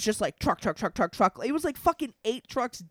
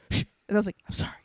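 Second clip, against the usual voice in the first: hushing; much faster than usual. Retold or imitated. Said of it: "I was just like".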